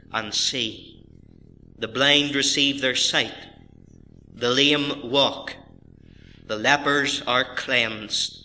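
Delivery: slow, measured Bible reading; scripture reading. Acted. Pastor reading the Gospel to his congregation, measured and deliberate. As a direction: read it out solemnly, with deliberate pauses.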